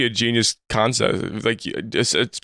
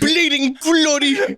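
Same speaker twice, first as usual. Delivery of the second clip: put-on Cockney accent; 14 semitones higher, much slower than usual. Joining the Cockney bit.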